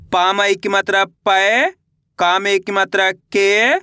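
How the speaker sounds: slow chant, last syllable stretched and rising; drawn-out, lilting matra drill; spelling drill recitation. Shown as a demonstration. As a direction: spell it out for pupils to repeat.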